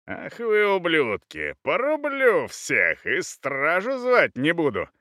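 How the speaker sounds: high-pitched, drawn-out angry threat; furious threats. Acted. Naked husband with a sword threatens burglars, furious. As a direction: threaten them in outraged, rising cries.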